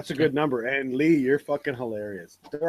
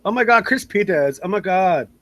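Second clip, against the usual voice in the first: put-on German Valley Girl; 3 semitones higher, 3 dB louder than usual. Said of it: "he's a German Valley Girl".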